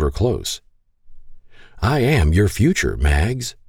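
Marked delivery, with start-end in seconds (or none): 1.8-3.6 husky. Acted. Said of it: "he declared huskily".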